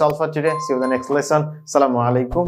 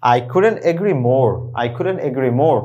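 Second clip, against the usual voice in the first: slow model sentence; 3 semitones lower, much slower than usual. Shown as a demonstration. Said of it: "আপনি কি বলতে পারেন".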